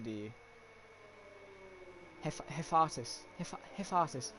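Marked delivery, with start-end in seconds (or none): 2.2-4.3 "Hefatis" drawled in a posh London accent; "Hefatis" in a lightly put-on posh English accent; posh young London drawl. Shown as a demonstration. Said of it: "you have to say it with a posh accent".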